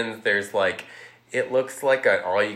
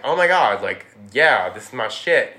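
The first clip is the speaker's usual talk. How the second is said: put-on gushing girl; 5 dB louder than usual. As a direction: gush like a spoiled kid who found her treat. Violet gushing over the gum.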